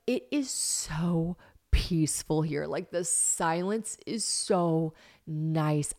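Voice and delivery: slow, drawn-out relish; slowly, lingering on each word; savouring calm. Real, not acted. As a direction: stretch the words out to savour the peace. Savouring the country silence.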